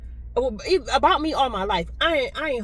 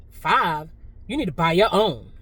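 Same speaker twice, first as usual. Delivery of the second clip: nasty attitude; 5 semitones lower than usual. Retold or imitated. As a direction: imitate her curt put-down. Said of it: "she said it with such a nasty attitude".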